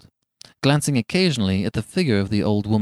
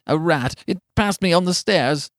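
put-on higher, uneasy old man's voice; shaking tones; 8 semitones higher than usual. A narrator's reading. Old man explaining the knock to his wife, shaking tones. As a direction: raise the pitch as a frightened old man. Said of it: "said the old man in shaking tones".

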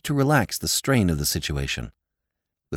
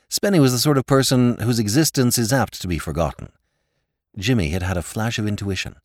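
usual speaking voice

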